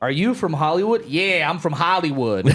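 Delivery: a mild put-on Boston accent; lightly voiced Boston locals, half laughing. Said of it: "I can't do a Boston accent".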